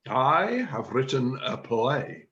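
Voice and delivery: slow, deliberate announcement; measured announcement. Acted. Chairman reveals his plan to the drama group, measured announcement. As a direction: announce it slowly, word by word.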